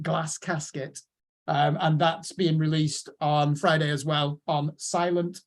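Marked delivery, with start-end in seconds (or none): 0.0-1.0 the release title with short flat northern a in "Glass"; northern English accent. Shown as a demonstration. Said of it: "in my northern accent".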